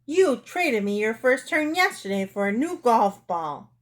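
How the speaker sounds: mildly hammed-up quarrelsome yell.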